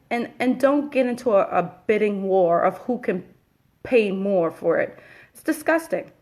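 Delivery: real frustration, building to disgust; heated rant. Real, not acted. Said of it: "my little rant there".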